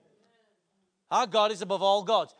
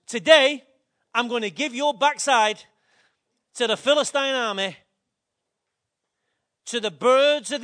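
loud taunt; 6 dB louder than usual. Pretend. David taunts Goliath loudly.

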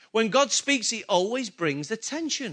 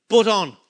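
"But on" punched out loud; stress on "but on"; 7 dB louder than usual. Shown as a demonstration. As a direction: hit "But on" hard, then pause. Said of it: "here's the emphasis right now".

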